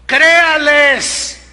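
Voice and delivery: loud, drawn-out slow plea; urgent command. Acted. Pastor urges the congregation, loud slow command. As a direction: plead it slowly and loudly. Preacher commanding parents to believe.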